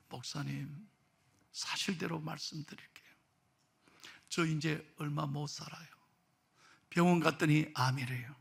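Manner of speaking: put-on low, very soft old man confiding; subdued, heavy-hearted disclosure; hushed confession. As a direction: admit it quietly to the pastor. Old man confides his cancer.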